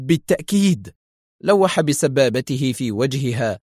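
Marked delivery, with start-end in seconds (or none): 0.1-0.9 higher, uneasy agreement; unsettled, placating; flustered. A narrator's reading. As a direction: agree nervously. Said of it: "قالت مضطربة".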